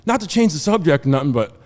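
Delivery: loud, rising Florida redneck twang; hammed-up Florida redneck, climbing to an excited holler. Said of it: "what a true Florida redneck sounds like".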